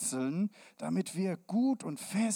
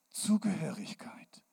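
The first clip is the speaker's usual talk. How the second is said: whispered keyword; 4 dB quieter than usual. Shown as a demonstration. Key word whispered.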